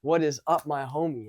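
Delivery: loud, punched "yo"; big brash hello, acted out; overconfident greeting. Mock-confident guy greeting everyone like a homie, overconfident. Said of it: "the most confident version of myself".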